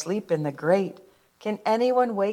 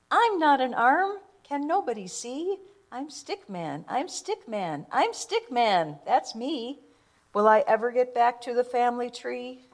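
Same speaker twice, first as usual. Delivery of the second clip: plaintive cry; 5 semitones higher than usual. Acted. Stickman lost in the snow, pleading.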